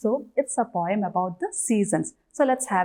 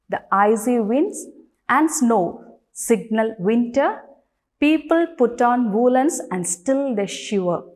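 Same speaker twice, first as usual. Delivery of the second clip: measured classroom verse reading, paused between phrases; poem reading. Acted. Teacher reading a seasons poem to children, poem reading. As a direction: read the poem out line by line.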